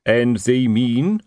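drawn-out teacherly prompt; slow quizzing sergeant. Acted. Sergeant prompting the imp, slow and patient. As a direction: coax the answer out slowly.

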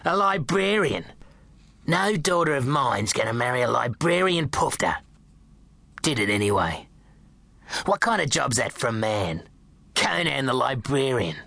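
mocking, contemptuous sneer; a hint of a jeering drunk nan; scornful nan. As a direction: scoff at the job. Nan mocking dad's job.

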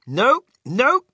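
loud, high refusal; yelling back. A narrator's reading. Inventor refusing his frightened passengers, yelling back. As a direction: shout them down over the noise. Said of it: "Mister Wonka yelled back".

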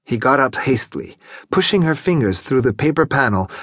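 ordinary delivery

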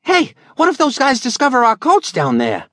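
put-on high, anxious young boy; worried boy voice. Billy worrying about the coats, high boyish voice. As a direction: kid suddenly fretting.

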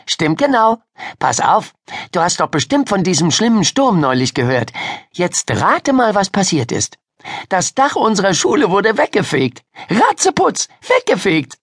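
put-on high, eager girl's chatter; excited storyteller girl. Miriam telling Ida about the storm, excited. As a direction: relish the dramatic news in a high voice.

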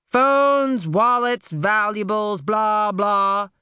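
a lightly voiced, soft demand; soft-spoken robber. A narrator's reading. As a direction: list the loot casually, softly. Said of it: "His voice was surprisingly soft".

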